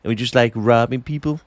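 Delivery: Bruce from Family Guy. Retold or imitated. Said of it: "He talks like Bruce off, uh, Family Guy".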